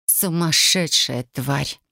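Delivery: slow, hoarse rasping voice. Acted. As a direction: rasp it out in disgust. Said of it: "прохрипела я".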